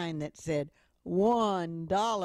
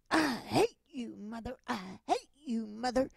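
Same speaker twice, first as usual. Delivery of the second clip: put-on child yelling; 6 semitones higher than usual. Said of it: "he was still yelling".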